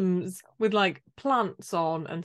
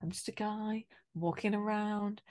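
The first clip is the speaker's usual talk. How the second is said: quiet aimless mumble; 8 dB quieter than usual. Retold or imitated. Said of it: "he's just like".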